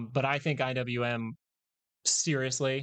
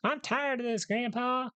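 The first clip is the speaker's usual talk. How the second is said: put-on high, strained old man voice; pitched-up elderly grandpa; 12 semitones higher than usual. Shown as a demonstration. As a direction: play the old grandpa again. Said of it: "Why did I do the grandpa voice".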